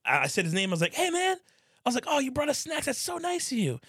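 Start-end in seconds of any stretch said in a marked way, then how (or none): 0.9-1.4 high-pitched sweet hello; put-on friendliness; fake-friendly greeting. Acts out greeting the snack bringer. 2.1-3.8 high-pitched, sugary thanks; over-nice retold politeness; fake gratitude. Acts out thanking the snack bringer.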